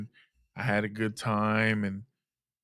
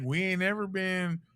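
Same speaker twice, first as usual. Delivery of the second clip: a mother's choked, high plea; mom's voice; 6 semitones higher, slower than usual. Retold or imitated. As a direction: play the emotional mom pitched way up. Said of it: "She's like".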